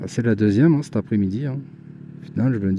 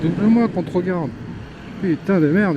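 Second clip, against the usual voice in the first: being chased; 5 semitones higher than usual. Real, not acted. Challenging the rider to pass.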